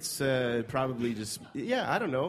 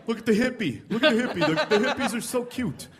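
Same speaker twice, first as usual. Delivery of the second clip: high, loud gushing at a curiosity; mock cooing onlookers; 10 semitones higher, 6 dB louder than usual. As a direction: coo over them as if at something cute. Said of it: "It's like".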